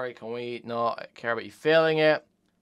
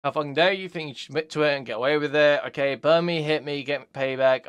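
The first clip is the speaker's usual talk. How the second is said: angry rant; 6 dB louder than usual. Retold or imitated. Heated reading of angry messages.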